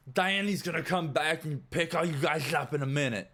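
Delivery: high, loud guard voice; guard announcing. Acted. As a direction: announce it loudly to all the prisoners. Guard figure announcing to prisoners.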